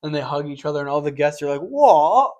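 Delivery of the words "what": high, loud startled what; a burst of mock disbelief; mock shocked judges. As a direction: play the stunned judges.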